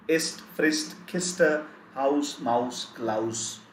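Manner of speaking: "Ist, Frist, Kiste, Haus, Maus, Klaus" with voiceless s; German "Haus" as HOWSS, listed in turn. Shown as a demonstration. Teacher lists examples for students, keeping each s hissed. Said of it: "we pronounce it as".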